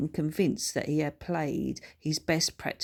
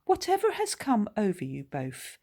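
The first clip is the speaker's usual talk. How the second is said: posh voice; 5 semitones higher than usual. Acted. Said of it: "in a very well-spoken voice".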